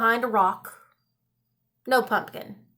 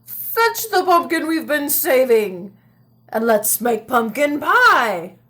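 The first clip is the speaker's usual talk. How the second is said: put-on croaky old man; 4 dB louder than usual. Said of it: "croaked the old man".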